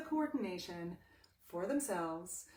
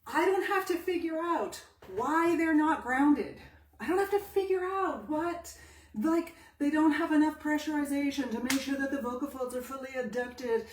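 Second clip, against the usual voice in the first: emphatic; 4 semitones higher, 6 dB louder than usual. Real, not acted. Teacher insisting to students, raised and emphatic. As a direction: drive the point home hard.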